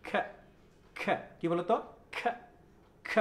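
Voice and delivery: short aspirated bursts of খ; isolated breathy kh on খ; kh sound. Shown as a demonstration. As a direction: drill খ alone with a puff of air. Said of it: "এটা একটা sound".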